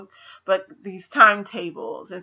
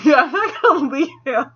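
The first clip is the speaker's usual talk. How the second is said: laughing defiance; 7 semitones higher, 6 dB louder than usual. Retold or imitated. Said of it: "Meg is like".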